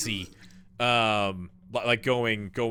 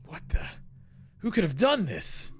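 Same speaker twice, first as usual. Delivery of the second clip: mock surprise; 8 semitones higher than usual. Mock shock at body in fridge.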